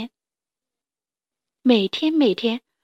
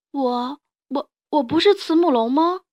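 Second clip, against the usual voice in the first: put-on stammering child; 4 semitones higher, 4 dB louder than usual.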